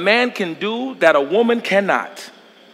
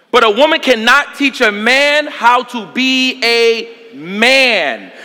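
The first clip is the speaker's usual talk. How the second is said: slowed; much slower than usual. Real, not acted. Climactic slow repeat.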